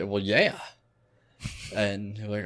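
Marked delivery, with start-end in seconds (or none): 0.0-0.6 lazy Southern hick drawl on "Well, yeah."; southern hick accent. Retold or imitated. Prank caller fooling telemarketer, lightly Southern hick. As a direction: play a dumb Southern hick. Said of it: "I'll put on a southern accent".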